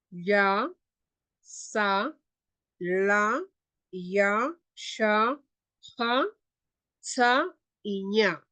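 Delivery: pa, na, ka read with a clear A after each consonant; teacher drilling Quechua consonants. Shown as a demonstration. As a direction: sound out each syllable for the class. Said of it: "Así se leen las consonantes en quechua".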